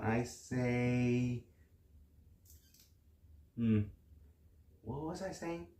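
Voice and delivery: ordinary talk, nothing marked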